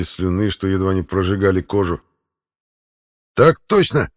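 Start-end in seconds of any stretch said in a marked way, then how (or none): 3.3-4.1 forced out. A narrator's reading. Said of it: "ухитрился выдавить я".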